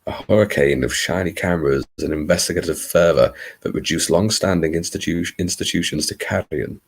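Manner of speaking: attempted American Southern storyteller; Bayou Babe accent. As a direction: narrate in a put-on Louisiana accent. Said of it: "my attempt at a Bayou Babe".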